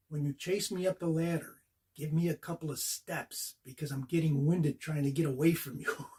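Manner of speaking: dropping to a hushed, almost whispered aside; confidential aside. Retold or imitated. Star asking the new kid a favour, hushed. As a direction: lean in and let it slip out low.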